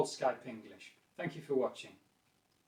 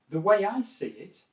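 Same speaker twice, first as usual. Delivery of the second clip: neutral, non-aggressive opinion opener, pitched up; 6 semitones higher, 3 dB louder than usual. Shown as a demonstration. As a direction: introduce your view evenly, without aggression. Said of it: "it's not aggressive, it's very neutral".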